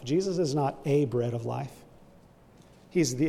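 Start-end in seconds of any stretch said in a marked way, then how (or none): 0.0-1.7 "a" said as a full "ay", set apart; stress on A. Shown as a demonstration. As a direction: contrast the article "a" as the wrong one. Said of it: "have definite articles".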